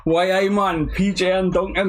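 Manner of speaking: playful mock Geordie; Geordie accent. Reader recentering for Biker Grove, mock Geordie accent. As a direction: lean into a Geordie catchphrase. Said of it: "I need to get all bite a groove".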